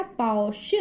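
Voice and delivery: पौष with a long "au" glide; demonstrated pronunciation. Shown as a demonstration. Teacher modelling a word for learners to repeat, careful and drawn out. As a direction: draw out the vowel in पौष. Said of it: "आप भी बोलकर देखिएगा".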